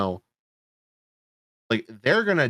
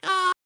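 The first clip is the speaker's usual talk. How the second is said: mock scream. Shown as a demonstration. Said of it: "And, like".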